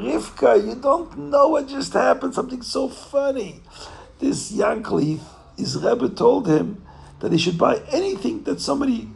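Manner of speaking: hammed-up tickled innkeeper; giddy amusement. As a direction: tell the joke like it's too funny. Innkeeper giddy, telling wife the joke.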